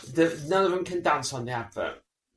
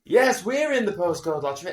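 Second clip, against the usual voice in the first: advert couple; 4 semitones higher, 5 dB louder than usual. Retold or imitated. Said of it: "And they say".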